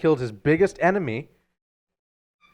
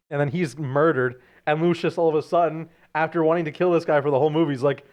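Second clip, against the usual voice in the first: ordinary talk, nothing marked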